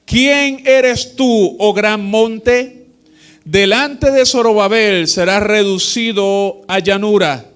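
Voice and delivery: slow, lifted pulpit reading; preacher reading the Bible to his church, slow and solemn; solemn scripture reading. Acted. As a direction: proclaim the verse to the congregation. Reads scripture aloud in sermon.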